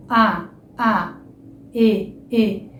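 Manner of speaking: sustained "A" and "E" to feel the throat buzz; voiced vowels. Shown as a demonstration. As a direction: hold the vowels "A" and "E" with voice. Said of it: "fazer o som de uma vogal". (vogais "A" e "E" prolongadas)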